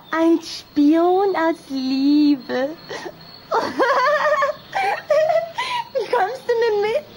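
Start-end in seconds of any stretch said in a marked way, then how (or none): 3.5-5.9 put-on bright high-pitched girlish giggle; a high, delighted little vampire giggle. Anna giggles, excited. 5.9-7.0 laughing invitation. Acted. Anna urges Anton, giggling.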